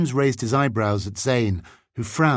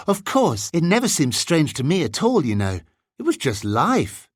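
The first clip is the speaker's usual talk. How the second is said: lightly voiced boy, pitched up at the start; matter-of-fact boy; 7 semitones higher than usual. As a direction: explain it as everyday life, lightly in character. James answers the amazed boy.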